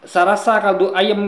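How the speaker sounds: lighter slow repeat in a Madura accent; gently slowed Madura accent. Shown as a demonstration. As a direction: say it again in a milder Madura accent. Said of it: "Aneh kan, coba ya".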